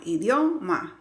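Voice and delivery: "idioma" with DIO punched and held; exaggerated syllable stress. Teacher showing how not to say it, overdone stress. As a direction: overdo DIO in "idioma", then break before "ma". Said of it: "no vamos aumentando el volumen en la sílaba".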